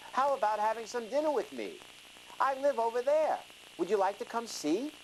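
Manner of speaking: high, sweet fake-friendly wolf voice; cheerful disguised wolf. Disguised wolf invites the lonely sheep, high and sweetly fake. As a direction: lure the sheep in with false cheer. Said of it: "cheerfully said".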